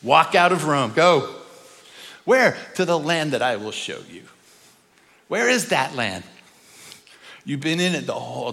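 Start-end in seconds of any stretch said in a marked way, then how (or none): 0.0-4.2 loud calling out: go; commanding call. Acted. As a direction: call him out of Rome, loud. God sends Abraham out, calling.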